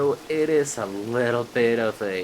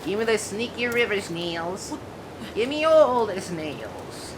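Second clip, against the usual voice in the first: a hint of a greedy villain; playful evil overlord, higher; megalomaniac rant; 5 semitones higher than usual.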